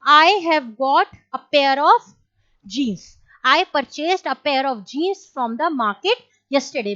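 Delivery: slow, spaced-out English example sentence; teacher dictating an example; slow dictation pace. Shown as a demonstration. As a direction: dictate each word for students to copy. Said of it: "teacher dictates example sentence slowly".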